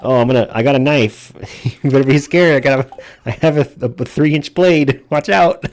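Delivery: hammed-up Cockney threat; British gangster. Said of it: "what is a British gangster gonna".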